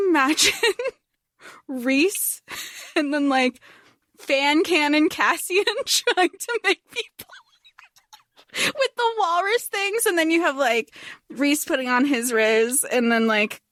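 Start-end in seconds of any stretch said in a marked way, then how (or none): 4.2-10.0 unvoiced whispered aside; whispering. Real, not acted. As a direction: whisper it through laughter.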